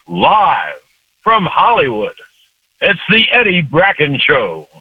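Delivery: lightly voiced grand radio intro; a hint of golden-age announcer; mock radio show opening; old radio announcer. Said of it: "announcer with a great voice".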